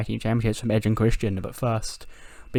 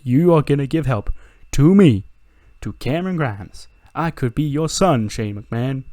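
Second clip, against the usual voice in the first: higher, louder indignant heel; Cameron Grimes voice; 4 semitones higher, 6 dB louder than usual. Retold or imitated. To Shane offering pointers, indignant Cameron Grimes. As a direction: scoff at the offer, pitched up. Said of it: "He goes".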